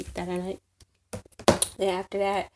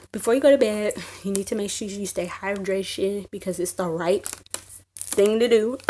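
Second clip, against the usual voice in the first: loud declaration; 5 dB louder than usual. Real, not acted. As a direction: announce it like a big rule. Mock announcement, laughing after.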